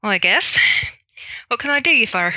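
put-on Irish, reluctantly polite; Irish accent. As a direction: humor the neighbor in an Irish accent. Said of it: "do my best Irish accent".

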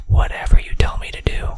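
loud breathy stage whisper. Pretend. Teasing viewers with a loud mock-creepy whisper. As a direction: hiss it out as a mock-creepy secret.

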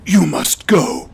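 lightly whispered heroic growl; superhero voice. Acted. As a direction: brood like a lone hero. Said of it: "That's my superhero voice".

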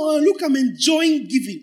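high, mocking sing-song; mocking high gush; mock gushing giver. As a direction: ridicule the self-pleased giver. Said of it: "It's not".

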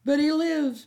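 triumphant, rubbing it in; crowing. Acted. Byrne gloating at Melly, loud high crow. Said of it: "Byrne crowed".

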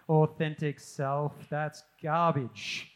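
dismissive scoff. Retold or imitated. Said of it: "be like".

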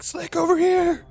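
high, loud in-character call; yelling for help. Acted. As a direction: call out urgently to a teammate. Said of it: "I'm yelling for Slick".

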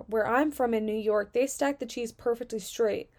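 mildly indignant quoted complaint. Retold or imitated. A customer complains to the deli worker about cheese, mildly indignant. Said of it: "Her exact indignant words were".

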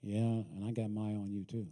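low sulky mumble under breath; mumbling. Acted. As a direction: mutter it back sullenly.

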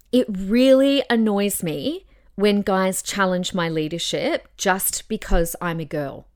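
demonstrated annoyance, stressed on REALLY; annoyed. Shown as a demonstration. Speaker objecting to guys challenging her leadership, annoyed. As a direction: let mild irritation come through, frowning. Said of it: "I'll try and do an annoyed tone".

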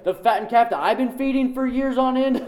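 mock-furious older brother; outraged brother. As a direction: act out the jealous brother's disbelief. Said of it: "he'd be so mad".

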